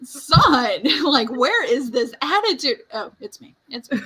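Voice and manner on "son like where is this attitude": laughing, a bit higher, amused disbelief. Real, not acted. Mom laughing about her son's attitude, amused. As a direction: laugh while asking.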